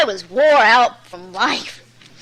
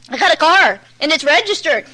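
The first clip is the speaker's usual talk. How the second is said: raised, lightly pleading protest; tale of woe; 4 semitones higher, 4 dB louder than usual. Retold or imitated. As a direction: plead your case, pitched up. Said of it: "telling him my tale of woe".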